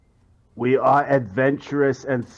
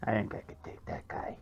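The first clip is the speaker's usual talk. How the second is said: hushed boastful whisper; 3 semitones lower, 14 dB quieter than usual. Acted. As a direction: whisper it to your friend. Aside about half giant.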